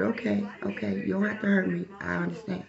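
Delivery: quietly calm him down; soft placating. Retold or imitated. Woman soothing the angry soldier, soft pleading.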